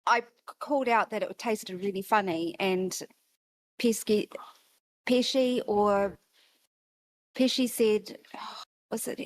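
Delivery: drowsy, half asleep, trailing off; sleepy voice, drifting between words. Real, not acted. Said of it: "I'm sorry, I'm half asleep".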